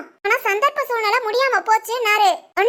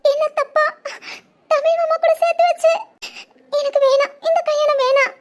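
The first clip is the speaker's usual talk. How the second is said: put-on sobbing complaint, voice pitched higher; fake tearful; 3 semitones higher than usual. Bride feigning tears to the groom about his parents, pretend sobbing. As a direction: play the wounded bride, teary and pleading.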